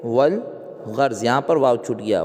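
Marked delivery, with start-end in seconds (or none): 0.0-1.2 slow "والغرض", said wal-gharz; silent alif, sounded lam. Shown as a demonstration. Teacher answering own question, slow wal-gharz for "والغرض". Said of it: "کیا بولیں گے؟".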